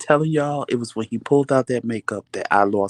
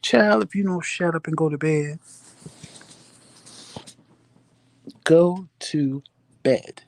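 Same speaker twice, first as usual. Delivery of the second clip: higher, fed-up scold; exasperated scolding; 6 semitones higher than usual. Retold or imitated. Wife scolding her drunk husband to sleep, higher exasperated. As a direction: snap at him to go to bed, pitched up.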